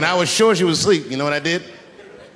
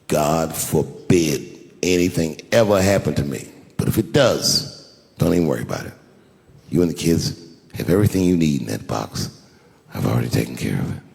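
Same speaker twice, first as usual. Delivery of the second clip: tender reassurance; 10 semitones lower than usual. Retold or imitated. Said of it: "I said".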